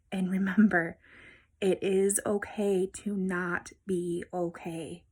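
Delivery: whispered, slow and tender. Real, not acted. Vlogger reassuring viewers at the close, in a slow tender whisper. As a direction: lay it down gently, like a promise.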